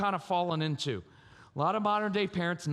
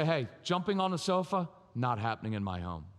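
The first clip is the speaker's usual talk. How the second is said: even, then much lower-pitched finish; statement of fact; 6 semitones lower than usual. Shown as a demonstration. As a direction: lay down the rule, nothing personal. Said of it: "It's a statement of fact".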